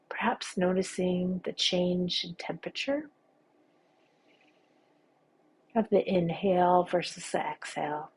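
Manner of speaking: unhurried meditation guide with long pauses; guided meditation. Acted. Teacher guiding listeners through a body scan, calm guided-meditation voice. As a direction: lead them gently through each sensation, leaving space.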